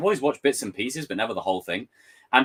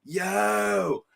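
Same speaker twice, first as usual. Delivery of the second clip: higher, louder surfer bro; laid-back dude voice pitched up; 9 semitones higher, 4 dB louder, much slower than usual. Retold or imitated. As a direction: play the goofy surfer writing scripts. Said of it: "that surfer dude from the trailer going".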